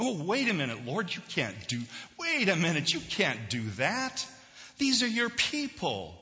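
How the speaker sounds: Moses in acted alarm, pitch leaping up; pleading protest. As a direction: interrupt and plead on the people's behalf. Acts out Moses protesting to God.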